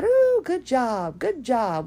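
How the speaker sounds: high, slow, sing-song "good job"; hammed-up gushing approval; mock patronizing praise. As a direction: imitate a trainer's empty cooing praise. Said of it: "They've just watched me breathe and said".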